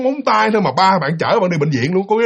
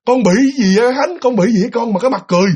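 raised pitch, puzzled questioning; worried father; 4 semitones higher than usual. Acted. Father questioning his child Khánh, worried.

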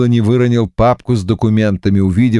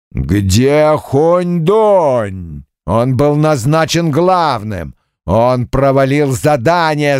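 demon bull voice; 4 semitones higher, slower than usual. Acted.

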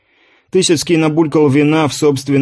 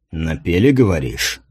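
low hoarse rasp, softer; 6 semitones lower, 3 dB quieter than usual. A narrator's reading. Commander rasping hoarsely as rage rises. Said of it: "прохрипел Тысяцкий".

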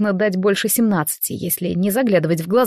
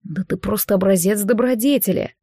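mocking. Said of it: "насмешливо сказал Алекс".

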